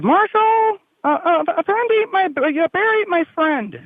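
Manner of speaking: put-on very high child's voice, rushed; squeaky kid voice; little boy voice. Boy scout quoted in story.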